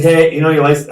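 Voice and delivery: imitating a cop barking the question loud and high; mock cop yelling from the window; retold cop shout. Retold cop at the car window, in a loud, high mock shout. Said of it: "He comes up, he's like".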